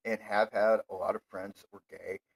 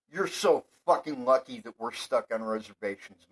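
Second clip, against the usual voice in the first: angry rant; 3 dB louder than usual. Real, not acted. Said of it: "my fucking rant on that shit".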